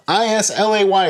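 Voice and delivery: Islay pronounced EYE-la; Islay with a silent s, ending in "luh"; correct pronunciation. Shown as a demonstration. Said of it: "it's pronounced Islay".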